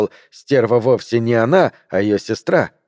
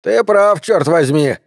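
higher, forceful angry outburst; growled retort; 6 semitones higher, slower than usual. A narrator's reading. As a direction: snap back, half growling. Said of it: "прорычал Бич". (сердитый рык, голос повышен)

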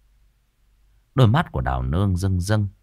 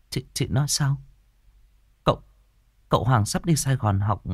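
stunned shock; 5 semitones higher than usual. Acted. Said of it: "Cô chết lặng".

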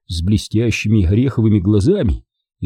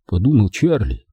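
ordinary delivery, nothing marked

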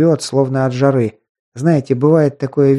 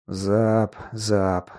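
soft low mumble of the name; muttering; 4 semitones lower, 7 dB quieter than usual. A narrator's reading. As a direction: mutter it to yourself. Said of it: "бормотал учитель теней".

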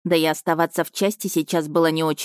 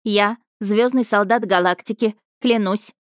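higher, brisk dictation; dictating the oath; 3 semitones higher than usual. Acted. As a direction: lead the oath line by line. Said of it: "Повторяйте за мной".

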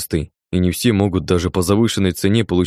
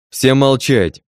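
loud, higher order for silence; loud command; 5 semitones higher, 4 dB louder, much slower than usual. Acted. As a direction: command the whole room. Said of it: "громко сказал блондин".

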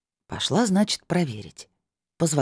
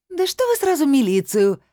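much higher, louder squeal of a wriggling woman; wheedling; 12 semitones higher, 5 dB louder than usual. A narrator's reading. Caught woman wriggles to avoid the police, high wheedling squeal. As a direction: squirm out of it, pleading and high. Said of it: "заюлила лиловогубая".

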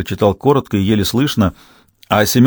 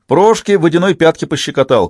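higher, louder call with anger, no humour; angry shout back; 7 semitones higher, 3 dB louder than usual. A narrator's reading. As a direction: shout the joke back but bitterly. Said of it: "крикнул в ответ Лис, но без задора, со злостью". (злой выкрик в ответ)

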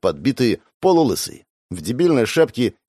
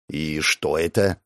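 lower, softer, slow dry question; unimpressed; 7 semitones lower, 4 dB quieter, slower than usual. A narrator's reading. Hero mocking the thug's pistol. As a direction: ask with a raised eyebrow. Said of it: "задираю бровь".

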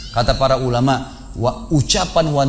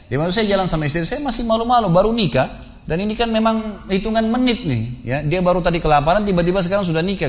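shy amused retelling; 7 semitones higher than usual. Retold or imitated. Murid bercerita, malu dan geli.

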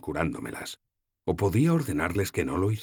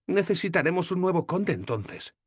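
put-on higher, lighter young woman's voice; voiced young heroine, gently teasing; Sefawin's voice; 14 semitones higher than usual.

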